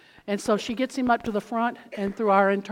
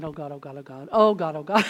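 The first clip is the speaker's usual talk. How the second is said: panicked inner prayer; 5 semitones lower than usual. Retold or imitated. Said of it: "I'm just thinking".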